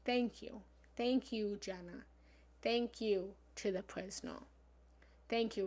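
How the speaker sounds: earnest grateful chant; repeated heartfelt thanks; reciting the mantra. Shown as a demonstration. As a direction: offer thanks like a prayer. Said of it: "Having gratitude".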